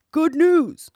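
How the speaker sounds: put-on loud, high bitter old dog; weary old dog cries out; old hound voice. Hound speaks in tale.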